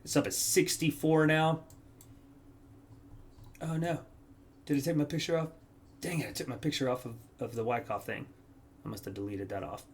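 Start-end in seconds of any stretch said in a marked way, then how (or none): 3.6-9.8 much softer, under his breath; muttering to himself after a blunder; quiet real annoyance at a missing picture; dismayed mutter. Real, not acted. Notices deleted picture mid-video.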